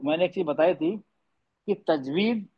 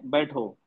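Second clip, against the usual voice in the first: "बैठो" alone, lower and falling; set apart after comma; 5 semitones lower, 3 dB quieter, much slower than usual. Shown as a demonstration. Teacher reads the word after the comma, set apart. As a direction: drop "बैठो" as its own command. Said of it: "comma लगा दिया मैंने".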